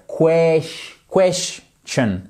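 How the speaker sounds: "question" broken up, KWESH then CHUN, open E; "question" slowly sounded out in pieces; open vowel by syllables. Shown as a demonstration. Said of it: "Vous voyez que c'est ouvert".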